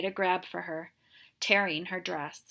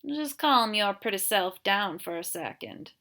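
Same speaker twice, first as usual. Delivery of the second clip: slow drawl. Acted. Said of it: "the sheriff said in a slow drawl".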